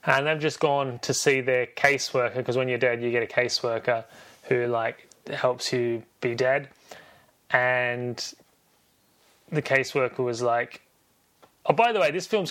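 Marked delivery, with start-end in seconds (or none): none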